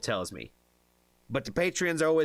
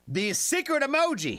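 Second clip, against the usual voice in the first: mock mysterious reveal; 13 semitones higher, 3 dB louder than usual. Dramatic reveal of secret emoji.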